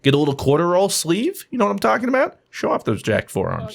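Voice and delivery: lightly voiced low motivational pitch; low-pitched hype talk, lightly put on; motivational speaker. Speaker pitching a forearm program to the boss, lightly voiced motivational speaker.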